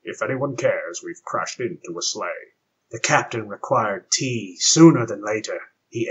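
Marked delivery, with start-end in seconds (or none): 0.0-2.5 low, grim Klingon deadpan; grim dismay. Acted. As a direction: say it grimly, with dismay. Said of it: "his voice grim with dismay".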